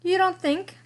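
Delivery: high, loud gasp of disbelief; gasped surprise. A narrator's reading. Lester stunned the clowns like it, gasping. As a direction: gasp it out amazed. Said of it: "gasped Lester".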